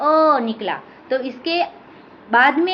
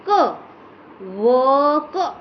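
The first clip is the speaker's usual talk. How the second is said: slow spelling out; much slower than usual. Shown as a demonstration. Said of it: "वो के बाद क्या ध्वनि निकली".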